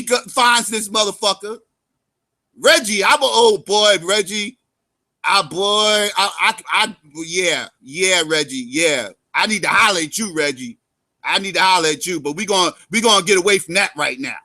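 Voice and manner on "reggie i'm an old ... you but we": low pleading caller. Retold or imitated. Caller pleading with Reggie on phone.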